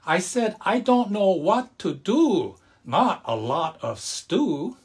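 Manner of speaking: laughing grandma. A narrator's reading. Grandma laughs at grandpa's mix-up, high and slow. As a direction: correct him with a laugh. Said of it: "shook her head and laughed".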